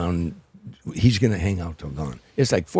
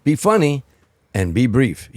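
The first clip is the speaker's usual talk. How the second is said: quoted Sinatra, higher and louder, punchy; Sinatra's advice; 5 semitones higher, 6 dB louder, slower than usual. Retold or imitated. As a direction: hand down the rule like the boss, loud and high. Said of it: "he said".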